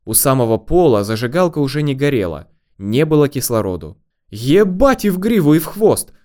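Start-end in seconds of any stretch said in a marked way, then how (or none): 4.3-6.1 high-pitched outraged exclamation; indignant. A narrator's reading. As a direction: swear in indignation, voice pitched right up. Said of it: "возмутился барин". (возмущённо)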